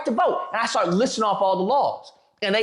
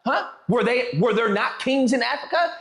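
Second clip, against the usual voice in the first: raised indignant retort; 2 semitones higher than usual. Retold or imitated. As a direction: push back, incredulous. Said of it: "I was like".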